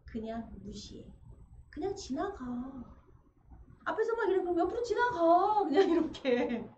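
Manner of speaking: Athena telling Heracles to ignore it; Athena advising. Retold or imitated. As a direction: coax him to just walk past. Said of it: "지혜의 아테네가 말합니다".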